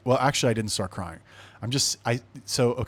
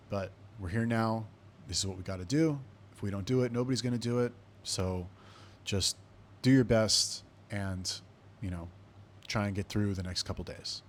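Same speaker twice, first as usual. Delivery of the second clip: gentle reassurance; 5 dB quieter than usual. Retold or imitated. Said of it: "puts his hand on my shoulder".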